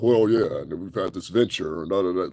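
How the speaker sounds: mock a low, articulate old white man; fake white-man voice. Mimicking the singer's fake interview voice, mock white man. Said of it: "You sound like a wannabe white man".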